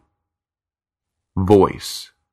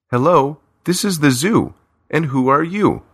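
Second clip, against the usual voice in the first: put-on cheeky little girl; 8 semitones higher than usual. A narrator's reading. Child pranks on the phone.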